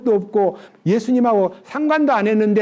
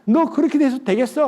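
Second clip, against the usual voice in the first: higher-pitched telling-off; mock scolding; 5 semitones higher than usual. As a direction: scold them in indignant questions. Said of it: "꾸짖지 않고요".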